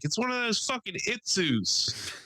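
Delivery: put-on high, slow old man grumble. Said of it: "he's just like".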